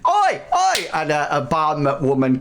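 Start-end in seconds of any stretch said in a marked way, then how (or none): 0.1-0.9 put-on boisterous drunk reveller. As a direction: beg him to stay like a merry drunk. Patrons stop Bartleby leaving.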